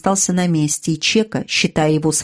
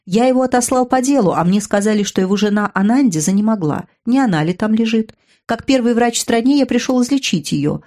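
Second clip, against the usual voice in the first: Chaka voiced; 4 semitones higher than usual. Chaka speaks in the story.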